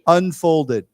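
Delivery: "Unfolded" said loud and clear for repetition; model pronunciation. Shown as a demonstration. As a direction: lead the class on "Unfolded", falling at the end. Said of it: "Why don't we say together".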